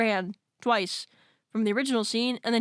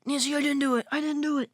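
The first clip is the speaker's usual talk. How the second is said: higher-pitched, lightly acted protest of innocence; mock pleading; 5 semitones higher, faster than usual. Accused boyfriend to Nancy after the murder, pleading. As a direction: plead in a raised, put-on voice.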